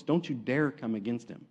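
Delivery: low, soft warning; understated divine rebuke, dropped low; God. Retold or imitated. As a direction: lay down a warning quietly. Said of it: "God shows up and he says".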